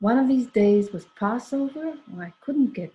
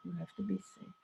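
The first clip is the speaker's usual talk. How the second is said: much softer, almost to himself; soft repeat; 14 dB quieter, faster than usual. Retold or imitated. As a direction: echo the warning quietly. Repeats the warning twice.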